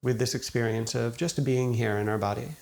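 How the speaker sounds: calm, unhurried meditation guide, long pauses between phrases; guided meditation. Acted. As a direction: gently guide listeners into settling, leaving space after each thought. Leads a guided meditation after intro.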